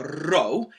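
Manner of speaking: "row" with a rolled R. Shown as a demonstration. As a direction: trill the R at the start of "row". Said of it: "if you can roll your R's".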